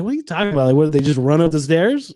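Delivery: incredulous question with a rise at the end; disbelieving question. Acted. Listener reacting to news of the storming, incredulous. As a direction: ask it as if you can't believe it. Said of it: "you immediately think, like".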